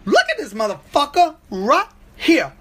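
high, far-off voice for the dog, hood dialect; dog sizing up the flute guy, high hood voice; dog's hood voice. Pretend. Dog staring at the flute guy, squeaky hood voice. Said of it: "even she was like".

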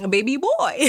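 giggly playful tag line; playful laughing. Pretend. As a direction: toss it off with a giggle.

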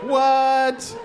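high startled "What?"; shocked what. Retold or imitated. Hearing posh kids' names, high disbelief. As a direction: react in disbelief. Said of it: "I was like".

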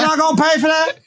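high mock shopkeeper voice; squeaky put-on deli owner. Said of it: "walks into the Korean deli".

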